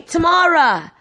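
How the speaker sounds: high, drawn-out name call; imitated calling-out, pitched well up; mock shout. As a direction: call for your sister across the shop. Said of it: "whilst I'm shouting out Tamara".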